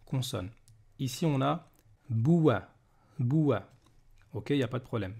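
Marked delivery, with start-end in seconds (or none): 2.1-3.7 "boua" with a w glide into a; consonant waw. Shown as a demonstration. Teacher contrasting consonant with long vowel, "boua" glided. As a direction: say "boua" as bou-wa, falling at the end. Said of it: "distinction entre voyelle longue et".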